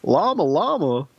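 slow, drawn-out TV doctor; talk-show doctor reading a children's rhyme; Doctor Phil. Acted. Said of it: "if Doctor Phil had done it".

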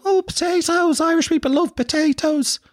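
very high squeaky mimicry of TV folk; mock them in a falsetto sing-out; mocking TV people. TV people teasing the Irish on air, high mocking voice. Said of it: "people go".

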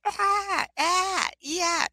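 high, strained, anguished moans; tormented ghost moaning. Retold or imitated. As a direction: voice a tormented soul. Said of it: "they create what I call the emotional stretching. Like, they emotionally".

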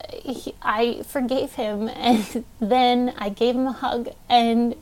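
real emotion, halting over the words; tearful, with pauses and a small breathy laugh; choked up. Real, not acted. Recalling forgiving dad in meditation, choked up. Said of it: "I'm getting emotional".

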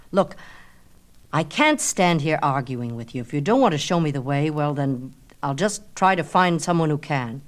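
a touch of irritation, brisk; mild impatience. Acted. Narcissus brushing off Echo, mildly impatient. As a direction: brush her off, a little impatient.

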